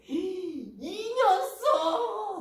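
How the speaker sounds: gasp, then high, loud drawn-out scolding; hammed-up angry older sibling; angry outburst. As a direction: explode at a younger sibling, stretched and high. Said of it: "막 화내고 막".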